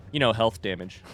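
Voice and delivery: stiff, stilted alien voice. Pretend. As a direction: talk like an odd alien. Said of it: "I'm speaking like an alien".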